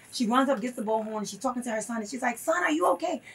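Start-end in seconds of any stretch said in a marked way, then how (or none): 2.4-3.2 retold motherly concern. Mother calls to jailed son.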